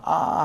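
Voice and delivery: long demonstrated "ah" of pain; open-mouthed pretend ache; mock pained groan. Shown as a demonstration. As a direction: act out a sore-lip "ah" lightly. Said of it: "하고 아픈 거".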